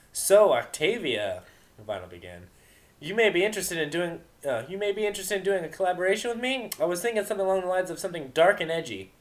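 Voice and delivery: high, loud sly mare voice; teasing Vinyl. Acted. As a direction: needle her with a sly offer.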